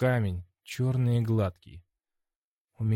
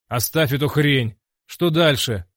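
louder, impatient cut-off; irritated demand; 4 semitones higher, 7 dB louder than usual. A narrator's reading. Hero cuts off Orlam's story, irritated. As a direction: brush it off and demand.

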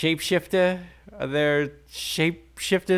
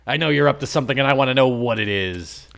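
angry; 3 dB louder, faster than usual. Acted. Norman calls bluff.

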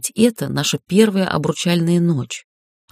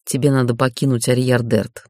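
funeral tone; 4 semitones lower than usual. Acted. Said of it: "таким похоронным тоном".

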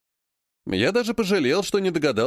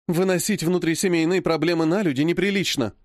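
curt remark; 3 semitones higher than usual. Acted. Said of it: "бросила тётя Алла".

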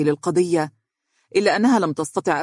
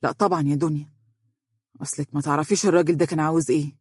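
sad; faster than usual. Acted. Lawyer explaining to his eager colleague, mildly sad. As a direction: answer with a touch of weary sorrow. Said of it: "وهو يقول بحزن".

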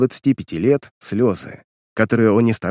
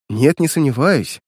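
cheerful; 4 semitones higher than usual. Acted. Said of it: "весело ответила девушка".

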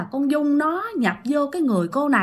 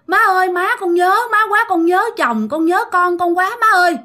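crying plea; 6 semitones higher than usual. Acted. Woman clinging to grandma's legs, begging through tears. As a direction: wail it like a grieving daughter-in-law. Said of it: "Khóc quá trời".

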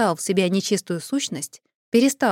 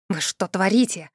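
ordinary delivery

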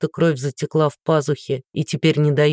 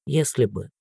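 weary; 4 semitones lower, 5 dB quieter than usual. Acted. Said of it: "ответил он устало".

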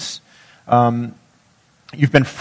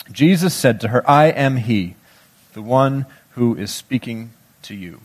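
measured, solemn reading of scripture. Acted. Preacher reads Gospel passage aloud.

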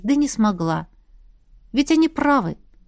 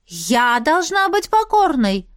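slow, higher, stunned repeat; taken aback; 6 semitones higher than usual. A narrator's reading. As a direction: echo it in disbelief. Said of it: "опешила от такого заявления". (ошарашенно, медленно, выше)

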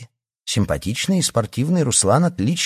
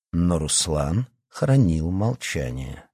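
plain reading voice

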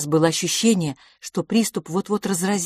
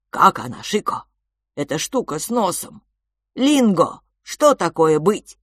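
louder broken-speech creature; cheerful creature voice; 5 dB louder than usual. Acted. Creature announces mealtime to the twins, cheerfully. Creature coaxes Lingo to eat.

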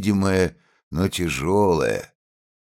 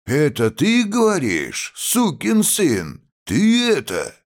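furious shout; 10 semitones higher than usual. A narrator's reading. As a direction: scream it while yanking him by the hair. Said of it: "кричал".

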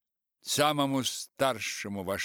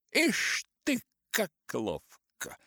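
higher, sly devilish voice; satanic glee; 11 semitones higher, 3 dB louder, slower than usual. Acted. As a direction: relish it like a little devil. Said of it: "сделал сатанинское лицо".

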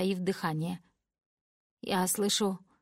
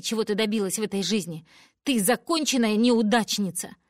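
triumphant yelling; 2 semitones higher, 6 dB louder than usual. Acted. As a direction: gloat in fury. Daughter exposing mother's firing. (злорадный громкий крик)

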